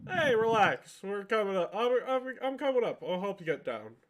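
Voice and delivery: put-on calling up to a scared girl in a tree; Matt calling up to the girl. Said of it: "Matt says to the little girl".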